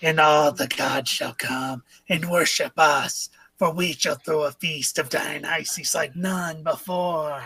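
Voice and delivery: booming pompous declaration; grand proclamation. Acted. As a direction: proclaim it like a reveler king. Grandiose feast-planning character.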